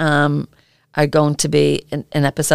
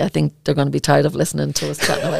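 laughing; faster than usual. Real, not acted. Joking sign-off, laughter.

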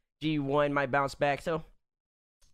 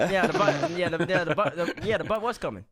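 laughing; 3 semitones higher, 3 dB louder than usual. Real, not acted. Laughing over misheard word.

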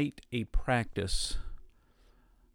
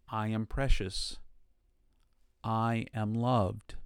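quiet affirmation; 2 semitones lower than usual. Shown as a demonstration. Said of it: "said to yourself".

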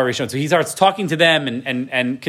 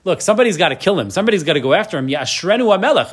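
people urging; 3 semitones higher, faster than usual. Retold or imitated. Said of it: "where they say".

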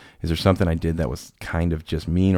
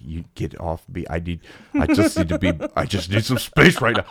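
retold upset. Hit girl to the man who hugged her, mock upset. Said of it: "She was so upset".

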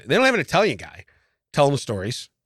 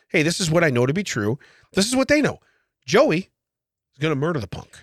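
Italian dialect. Pretend. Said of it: "with an Italian dialect".

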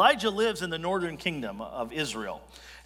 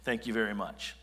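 death threat; 5 semitones lower than usual. Retold or imitated. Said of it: "A literal death threat".

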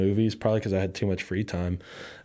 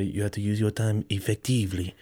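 a touch of strict teacher emphasis; emphatic teacher. Retold or imitated. Study hall teacher lecturing students, mild emphatic imitation. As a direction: lean on the words like a stern study hall teacher. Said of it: "with the emphasis".

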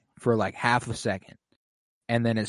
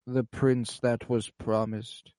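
dying king; 4 dB quieter, much slower than usual. Retold or imitated. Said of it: "he's like".

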